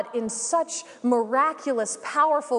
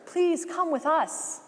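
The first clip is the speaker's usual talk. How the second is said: calling out; 2 semitones higher than usual. Acted. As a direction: call out to the man on the roof. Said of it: "she calls out".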